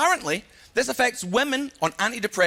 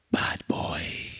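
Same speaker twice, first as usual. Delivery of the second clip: mock bad boy; 6 dB quieter than usual. Self-mocking bravado.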